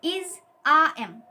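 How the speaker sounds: "इज, आ, एम" spaced out to repeat; pronunciation drill. Shown as a demonstration. Teacher asking students to pronounce along, pronunciation drill. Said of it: "आप भी एक बार pronunciation कीजिए".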